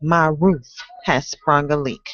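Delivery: aggrieved tenant pleading with the landlord; complaining tenant. Acted. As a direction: recite as a fed-up tenant, lifting into indignation. Performs the tenant in a poem.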